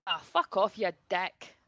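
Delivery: Glaswegian catchphrase, lightly voiced; Scottish accent. Shown as a demonstration. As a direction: swear it out in a hint of Scottish. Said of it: "a catchphrase to get you into it".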